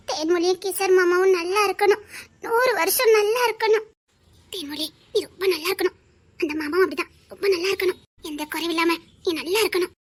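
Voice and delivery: low, tearful well-wishing; tearful blessing. Acted. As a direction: bless them through tears.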